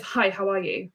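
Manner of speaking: blunt annoyed read. Shown as a demonstration. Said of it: "they're blunt and pissed off at me".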